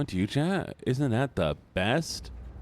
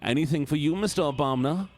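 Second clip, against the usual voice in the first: a bit higher, begging voice; pleading drowning victim; 3 semitones higher than usual. Acted. Drowning victim begging Mister Obama, lightly higher. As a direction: beg desperately for rescue.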